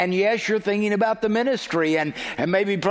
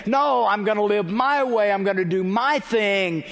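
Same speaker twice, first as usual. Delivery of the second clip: raised, insistent refusal; mock defiance; 3 semitones higher than usual. Sinner turning his back on Christ, acted defiance. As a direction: dig in on your own way.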